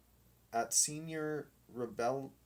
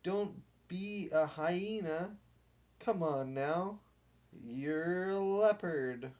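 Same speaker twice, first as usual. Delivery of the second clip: higher coaxing command; bossy captain; 7 semitones higher, 3 dB louder than usual. Acted. Captain bosses the dog into the game. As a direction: lean on him till he gives in.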